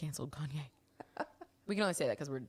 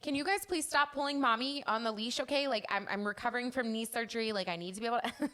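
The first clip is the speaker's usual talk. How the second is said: higher pleading voice to the dogs; lecturing the dogs; 4 semitones higher than usual. Retold or imitated. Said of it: "I'm like".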